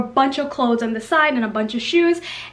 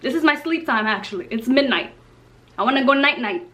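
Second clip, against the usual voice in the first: sassy inner monologue. Retold or imitated. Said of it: "I'm sitting there like".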